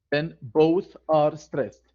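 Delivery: "both" stressed, said slowly; teacher repeating the rule slowly; slow restatement. Shown as a demonstration.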